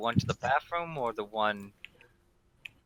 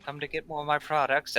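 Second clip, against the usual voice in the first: sassy; 4 semitones higher than usual. Acted. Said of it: "back to his normal sassy tone".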